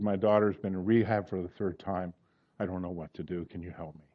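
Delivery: soft, low retelling of a weeping plea; subdued, sinking voice for a retold cry for help; retold tearful plea. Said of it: "He starts weeping".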